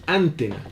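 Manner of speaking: antena stressed on the first syllable, ÁN-tena; wrong first-syllable stress. Shown as a demonstration. Teacher showing how antena is not said, stressed ÁN-tena. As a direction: push the stress in antena forward onto "an". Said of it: "es una palabra grave".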